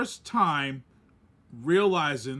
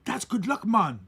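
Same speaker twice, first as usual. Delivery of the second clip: imitated Caribbean accent, pitched up; Jamaican cab driver; 3 semitones higher than usual. Cab driver reassuring bat-covered tourist, Jamaican accent. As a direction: quote him with a Jamaican lilt. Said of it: "and the Jamaican, the Caribbean cab driver".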